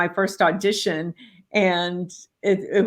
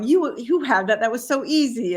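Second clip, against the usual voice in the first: inner egotist; 5 semitones higher than usual. Retold or imitated. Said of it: "my egotist going".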